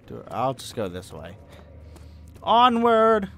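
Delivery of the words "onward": loud, high battle call; rallying cry. Real, not acted. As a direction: call the charge, high and drawn out.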